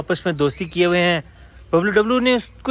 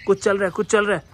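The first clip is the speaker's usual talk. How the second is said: urgent; 4 semitones higher than usual. Real, not acted. Animals fighting, separating them.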